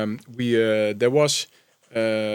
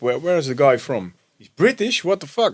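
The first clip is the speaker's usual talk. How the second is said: amazed disbelief. Retold or imitated. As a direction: gasp it in disbelief. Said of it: "I look up".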